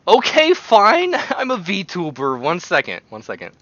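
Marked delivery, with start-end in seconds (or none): 0.1-2.4 high, slow cutesy VTuber voice; cute anime streamer. Pretend. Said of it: "You sound like a VTuber in denial". 2.4-3.0 light cutesy streamer voice; a touch of anime sweetness. Pretend. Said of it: "You sound like a VTuber in denial".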